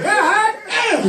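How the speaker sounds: mock shocked exclaim. Exclaiming at the homeless man.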